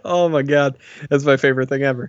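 real laughter through the words; laughing. Real, not acted. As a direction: laugh out the line, tickled. Delighted by the joke.

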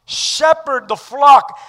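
loud slow proclamation; emphatic. Acted. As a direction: ring out flock. Preacher repeats verse.

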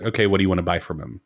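matter-of-fact, uninvested game master delivery; flat. Shown as a demonstration. Game master voicing a wine merchant without character, flatly. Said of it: "very flatly voice".

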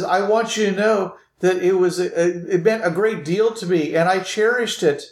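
high, heartfelt female character voice; earnest lady. Acted. Lady tells him she cherished his present, high earnest voice. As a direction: plead sincerely in a lady's high voice. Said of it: "you hear this female voice".

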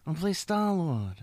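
mumbled tough-guy movie star; hammed-up action hero announcing his role; Sylvester Stallone. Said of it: "your impression".

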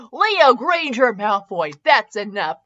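slow, measured scolding by full name; lightly stern father. Acted. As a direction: say it as a parent cutting off a child. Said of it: "Draco said sternly".

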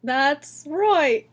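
high fake British agreement; hammed-up British; mock British accent. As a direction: play along in a bad British accent. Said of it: "'cause we're British".

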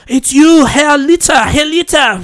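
high, loud, horrified cry of recognition; startled old woman. Retold or imitated. Survivor recognizing the man at the grill, high horrified cry. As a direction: gasp it out like she's seen a ghost. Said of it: "She goes".

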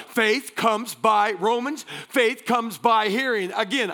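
punchy sermon delivery with weighted key words; emphatic preaching. Real, not acted. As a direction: preach it to the whole room.

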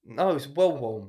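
put-on Nigerian woman, slow and emphatic. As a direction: draw it out as an improvised Nigerian woman. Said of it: "A woman from Nigeria".

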